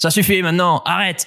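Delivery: high, loud, commanding, authoritative shouting. Explaining how to intervene, the speaker demonstrates shouting with authority. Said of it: "tout en criant, par exemple, avec autorité".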